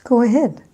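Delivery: loud model phrase, lean on "ahead"; second-word stress. Shown as a demonstration. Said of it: "a little bit louder and just a little bit longer".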